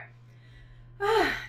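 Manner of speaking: a loud sigh to steady nerves; nervous sigh. Real, not acted. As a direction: breathe out before reading aloud. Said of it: "I'm nervous".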